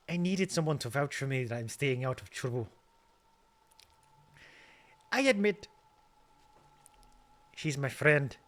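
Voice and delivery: put-on Scottish accent sliding into Irish; a Scottish voice that drifts into Irish; slipping into Irish. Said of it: "nope, it's going back to Irish".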